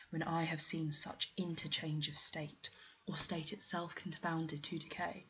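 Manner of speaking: measured, slow sonnet reading with steady pauses; poem recitation. Acted. Literature student reciting Sonnet sixty-four to viewers, measured poem reading. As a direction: recite it like verse, line by line.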